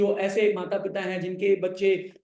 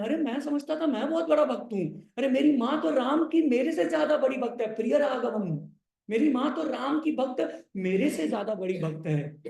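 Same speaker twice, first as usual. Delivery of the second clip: lightly acted astonishment, pitched higher; a higher, musing voice of amazed realisation; Lakshman; 6 semitones higher than usual. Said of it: "ऐसा सोच करके लक्ष्मण स्तब्ध हो जाते हैं". (हल्के अभिनय में, ऊँचे स्वर में चकित)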